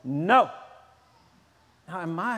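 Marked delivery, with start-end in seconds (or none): 0.0-0.5 put-on defiant child. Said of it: "and they say".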